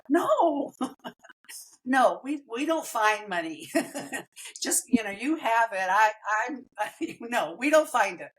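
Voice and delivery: giggling through a mock refusal; laughing it off. Telling his friend there's no money, laughing. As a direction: laugh off the question while saying no.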